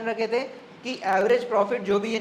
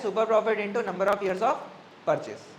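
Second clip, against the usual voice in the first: slow, word by word for note taking; slow dictation; much slower than usual. Shown as a demonstration. Teacher dictating the goodwill formula, slow and spaced. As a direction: spell the formula out slowly. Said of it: "goodwill क्या है?".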